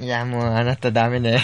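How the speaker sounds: a hint of a fake fortune teller. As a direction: pronounce doom like a phony psychic. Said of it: "このインチキ占い師みたいな言い方".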